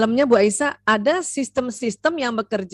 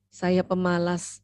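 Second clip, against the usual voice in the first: put-on slow, lower child voice saying "Saya pemalas"; child repeating; 4 semitones lower, slower than usual. Shown as a demonstration. Child repeating the label about himself, slow and low. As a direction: slowly repeat it as a resigned child. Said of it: "pada saat dia ulang kalimatnya".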